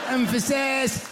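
"emphasis" said em-fuh-SESS; stress on last syllable. Shown as a demonstration. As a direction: land on the final syllable of "emphasis". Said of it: "emphasis or emphasis or".

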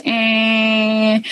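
flat held horn-like eh; imitated car horn drone. At the crime scene, the horn droning on, imitated. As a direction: mimic the stuck car horn. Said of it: "all I hear is".

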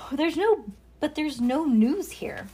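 high, drawn-out gloomy complaint. A narrator's reading. Ruby tells visitors there is no news, high gloomy whine. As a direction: complain glumly, stretching it out. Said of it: "said Ruby gloomy".

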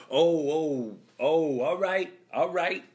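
imitated backing off. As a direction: placate someone while backing away. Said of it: "he just slowly started backtracking".

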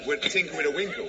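chuckling through the words; laughing. Real, not acted. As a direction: laugh while saying it. Laughing wordplay.

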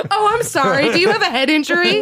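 high, fast mocking baby talk. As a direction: coo at him like a baby.

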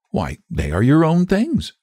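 put-on high-pitched, guileless child; simple childlike certainty; simply said. A narrator's reading. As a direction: state the obvious, innocently. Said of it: "she said simply".

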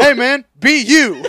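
high, loud, slow mock comic voice; Mark Norman impression. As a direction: lay it on like a hammy comedian. Voicing Mark Norman bit.

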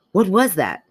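put-on a light Scottish accent on the question; a hint of Scottish, quoting him. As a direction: lightly voice a startled Scottish man. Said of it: "That kinda sounded Scottish".

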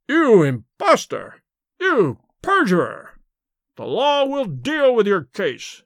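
shaking with fury, pointing at the impostor; furious scream. A narrator's reading. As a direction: hurl each word at the man. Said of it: "screamed at Bates".

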